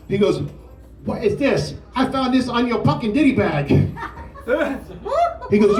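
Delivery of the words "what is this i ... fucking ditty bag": drill chief yell. Retold or imitated. Short drill chief yelling at recruit.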